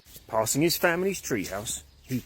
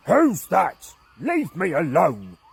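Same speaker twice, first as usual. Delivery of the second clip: louder, snappish retort; a hint of grumpy; 4 semitones higher, 6 dB louder, slower than usual. Angry caveman to unseen voice, a hint of grump. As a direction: push the stranger away.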